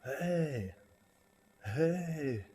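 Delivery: loud high call, retold; yelling. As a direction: shout hey after someone. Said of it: "He starts yelling".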